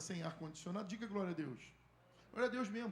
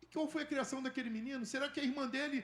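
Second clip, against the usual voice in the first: building, louder and higher fervent preaching; preaching at full force; 6 semitones higher, 5 dB louder than usual. Acted. Pastor stirring the congregation about the boy, fervent build. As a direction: drive it home to the church, growing.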